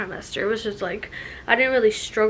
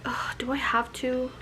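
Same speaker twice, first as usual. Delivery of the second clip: softer, reluctant mock groan; over it; 2 semitones higher, 5 dB quieter than usual. Drained pregnant woman facing getting out of bed, mock reluctant. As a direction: act out not wanting to bother. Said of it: "feeling like I'm over it".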